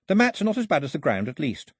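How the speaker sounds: quick, high-pitched hostess chatter; polite hostess girl. Acted. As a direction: reassure guests briskly in a high girl's voice. Girl playing polite hostess to captors.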